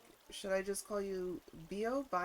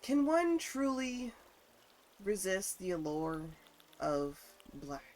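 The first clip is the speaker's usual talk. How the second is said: dramatic theatrical; 4 dB louder than usual. Pretend. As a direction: ham up the grand question. Grand theatrical question about black.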